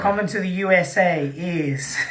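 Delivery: put-on American announcer accent. Host announcing the US tour crew, mock American accent. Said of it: "do it in my American accent".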